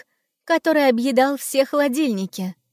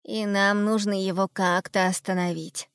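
gloomy; 2 semitones lower, 3 dB quieter than usual. Acted. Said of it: "уныло проговорил Ум".

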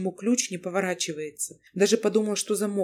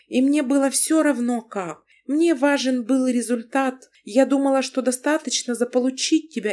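higher, louder confessing wife; wife Lana; 5 semitones higher, 5 dB louder than usual. Acted. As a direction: she pours out her love, unashamed. Narrator voices the wife Lana.

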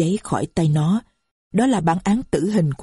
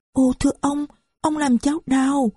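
put-on higher, small child's voice saying it hurts; a little girl, gently complaining; 8 semitones higher than usual. A narrator's reading. Narrator voices little girl Marie.

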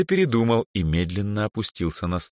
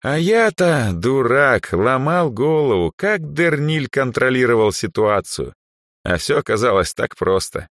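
higher, louder rueful outburst; self-reproaching archmage; 8 semitones higher, 5 dB louder than usual. Acted. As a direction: berate yourself, half laughing. Andre scolds himself. (архимаг ругает себя)

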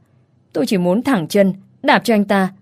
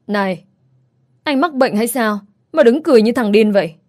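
cursing him; 3 semitones higher than usual. Acted. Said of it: "rủa hắn ta".

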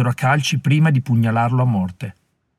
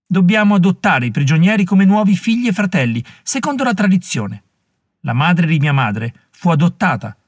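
put-on fierce young woman; 5 semitones higher than usual. Molly rebuking the warriors, fierce and scornful. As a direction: shame them for their greed.

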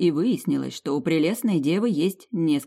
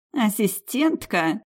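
slow scornful snort, pitched higher; 5 semitones higher, much slower than usual. Acted. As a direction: sneer the word out with contempt. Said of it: "фыркнула дева".

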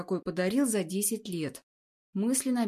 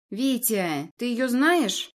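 contemptuous; 5 dB louder, much slower than usual. Acted. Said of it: "Обдаёт меня презрением мадам".

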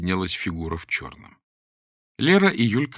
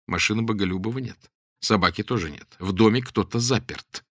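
usual speaking voice

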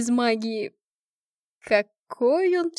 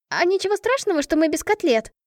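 blurted out; 7 semitones higher than usual. A narrator's reading. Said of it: "выпалила я".

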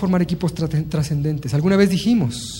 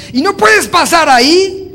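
stern order; 10 semitones higher, 7 dB louder, slower than usual. Pretend. Blocking the door, stern rule.

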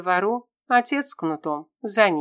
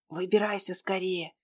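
urgent hushed call from above; a boy's loud whisper to his hiding friend; 5 dB quieter than usual. A narrator's reading. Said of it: "раздался над головой громкий шёпот".

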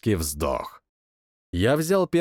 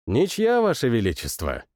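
conciliatory; 3 semitones lower than usual. Acted. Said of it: "сказал я примирительно".

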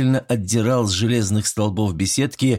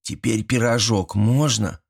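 put-on hopeful kid. Boy asks granny for a pie, childish. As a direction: ask for the pie sweetly.

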